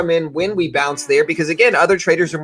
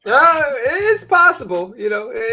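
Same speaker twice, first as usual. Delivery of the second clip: laughing; 7 semitones higher, slower than usual. Real, not acted. Laughing at a bag holder's hope.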